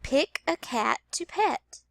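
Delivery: slowed, clear repeat of Pick a cat to pet. Shown as a demonstration. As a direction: repeat it slowly. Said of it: "Let me repeat that sentence".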